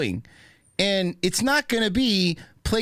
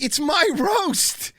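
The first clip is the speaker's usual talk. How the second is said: much higher, slow, stretched mock Kevin Hart voice; 12 semitones higher, much slower than usual. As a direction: drag out a squeaky high mock of the host. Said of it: "He's like".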